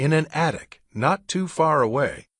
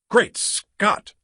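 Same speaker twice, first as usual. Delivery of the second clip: horrified; 9 semitones higher than usual. Acted.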